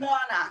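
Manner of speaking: "Donna" with a hard, plain D sound. Shown as a demonstration. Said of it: "That's a hard D".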